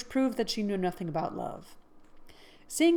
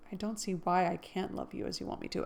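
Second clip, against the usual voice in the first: softer, subdued reading; quiet; 6 dB quieter, faster than usual. Acted. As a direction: pull back and say it quietly. Second take, quieter.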